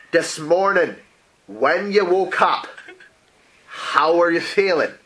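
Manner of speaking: slow, deliberate spelled-out repeat; patient repeat. Acted. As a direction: say it again slowly for someone who missed it. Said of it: "excuse me, excuse me?".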